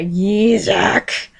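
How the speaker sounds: growing anger on the name; hissed through gritted teeth. A narrator's reading. Shiho angry at Yuzak, hissing his name. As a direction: seethe the name at him. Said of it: "she hissed through gritted teeth, anger growing".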